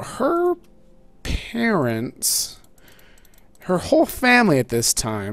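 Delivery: very high, swooping, sing-song, drawn-out voice. Telling a story about a friend's family, voice got really high. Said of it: "I don't know why my voice got real high like that".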